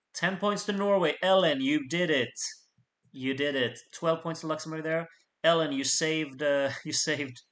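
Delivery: loud, delighted outburst; thrilled shouting at the result; excited cheering. Real, not acted. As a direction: cheer her on. Cheering a saved voter.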